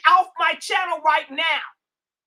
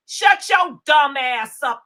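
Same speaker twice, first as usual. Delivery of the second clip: angry command; 5 dB louder, slower than usual. Real, not acted. Cussing out a commenter.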